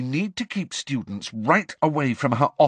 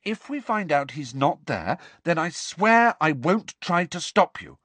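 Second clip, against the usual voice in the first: high, earnest begging; urgent, high-pitched bargaining; desperate pleading; 12 semitones higher than usual. A narrator's reading. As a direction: plead with him to wait. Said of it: "said Hermione desperately".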